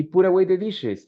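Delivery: a high, firm command "Put away the dishes"; firm instruction. Shown as a demonstration. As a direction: give it as an order, not a favor. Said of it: "it's an instruction".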